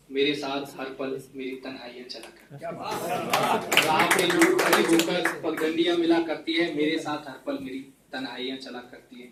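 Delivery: measured mushaira-style poetry recital; ghazal recitation. Acted. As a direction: recite the couplets, letting each phrase land. Recites a ghazal to a live audience. (मुशायरे के अंदाज़ में ग़ज़ल पाठ)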